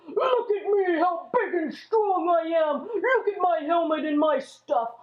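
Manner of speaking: a hint of a bully taunting the army; mild mock giant boast; boastful giant. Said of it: "he was screaming and yelling".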